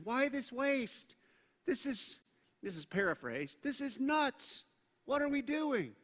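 scoffing disciples. Retold or imitated. Disciples scoffing at wasted perfume.

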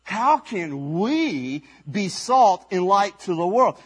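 slow, lightly voiced wondering question; a hint of a humble disciple doubting; disbelieving disciples. Disciple asking friends in disbelief. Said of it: "the disciples mumbling to each other".

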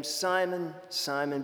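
a soft, caring double "Simon"; tender repeated name. Retold or imitated. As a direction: gently call Simon twice, as to someone loved. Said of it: "this beautiful way of speaking".

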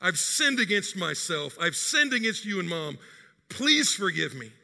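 a touch of tearful pleading, slowed; pleading anguish. Retold or imitated. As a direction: daughter begging forgiveness, understated. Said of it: "began pouring out her anguish".

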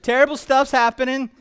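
slang Jesus warning. Acted. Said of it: "But Jesus is like".

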